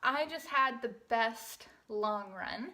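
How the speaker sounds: breathless after a long run; talking while still catching breath. Real, not acted. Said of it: "catching my breath from it".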